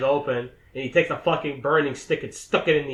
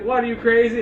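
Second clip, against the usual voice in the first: high, loud retold outburst; mock alarmed cry; incredulous yell; 8 semitones higher, 6 dB louder than usual. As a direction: shout back in mock disbelief. Acts reply on breaking rope.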